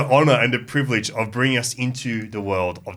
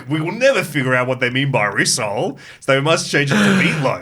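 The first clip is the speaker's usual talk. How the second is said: mock incredulous; 3 semitones higher, 4 dB louder than usual. Mocking American dubbers' logic.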